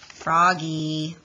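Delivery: loud call of his name. Acted. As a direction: snap him back to attention. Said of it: "cried his teacher".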